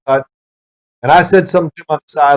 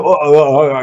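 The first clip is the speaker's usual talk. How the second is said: stuttering. Retold or imitated. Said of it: "I'm stuttering".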